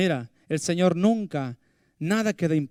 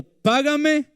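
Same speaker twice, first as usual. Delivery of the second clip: sharp high cry of "Págame"; demanding payment; 10 semitones higher than usual. Acted. Servant choking his debtor, a high angry demand. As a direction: bark the demand up high, grabbing him by the throat.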